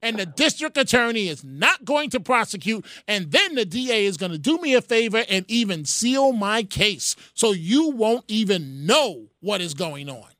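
mildly hammed-up cocky migrant, punching key words; sarcastic mock defiance. Host mockingly plays a migrant defying the country, sarcastic. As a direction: voice a brazen lawbreaker with heavy sarcasm. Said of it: "I hope you can hear the sarcasm".

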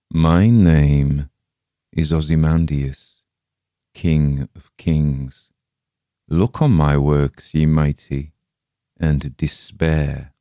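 booming royal boast, stretched slow; a commanding monarch's proclamation; proud king's inscription. Acted. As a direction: declaim it like a tyrant king.

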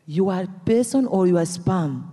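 retold incredulous challenge. Activist questioning whether caller is spam, incredulous. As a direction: replay your disbelief at the caller.

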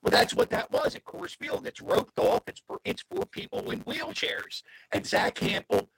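distorted, glitchy call audio; robot voice. Real, not acted. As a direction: voice breaking up over a bad connection. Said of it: "you sound like a robot right now".

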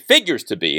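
weight on the word "figures"; stress on figures. Real, not acted. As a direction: lean on "figures" as a careful qualifier. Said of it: "I stress that word figures".

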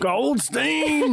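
high, ringing call of the name; called-out catchphrase. Retold or imitated. Calling out a TV catchphrase.

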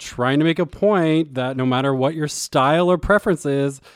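playful sales pitch with the voice climbing; put-on rising pitch, hamming up the ad; voice going up. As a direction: let your voice ride up to push the point. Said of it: "I'm gonna continue to talk like this".

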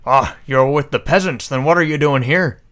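put-on guard sneers back in a posh accent; mirrored posh accent. Guard questions stranger in a loud posh accent. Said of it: "I'm mirroring your accent now".

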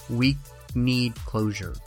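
normal talking voice

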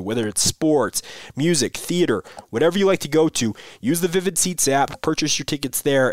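upbeat, polished ad read; sponsor ad read. Acted. Podcast host reading a sponsor spot to listeners, upbeat ad read. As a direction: sell the sponsor to listeners, energetic.

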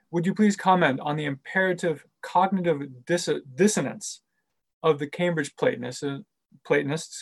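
stumbling over the question, restarting words; tongue-tied. Real, not acted. Moderator misreading a question to the professor, tongue-tied. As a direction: trip on words and correct yourself. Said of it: "I'm tongue-tied today".

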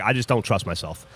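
lightly imitated low, gravelly guy; mock gravelly big-guy voice; gravelly mountain man. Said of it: "gravelly voice".

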